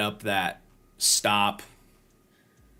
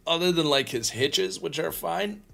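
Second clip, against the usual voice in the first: talking through a yawn; words stretched by a yawn; 9 semitones higher than usual. Real, not acted. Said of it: "Sorry, I've yawned".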